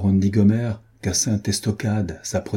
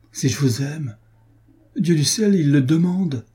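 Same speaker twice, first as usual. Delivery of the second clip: passionate exclamation; 5 semitones higher than usual. Acted.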